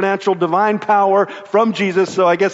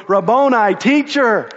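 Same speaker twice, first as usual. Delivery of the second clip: joyful cry; 3 semitones higher than usual. Retold or imitated. Mary crying out to Jesus, a joyful mild cry. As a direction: call out in sudden joy. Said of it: "she cries out".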